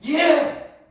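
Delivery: a loud defiant yes; defiant shout. Acted. Jonah defiantly answering God, shouting. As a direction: Jonah yelling back at God. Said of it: "라고 얘기를 했어요".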